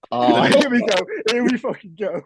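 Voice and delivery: high, eager build-up; gearing up for the big reveal; excited anticipation. Real, not acted. Friend about to hear a clue, excitedly high.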